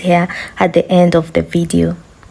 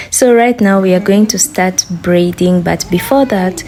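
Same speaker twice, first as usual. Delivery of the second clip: hoarse voice. Real, not acted. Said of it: "excuse my hoarse voice".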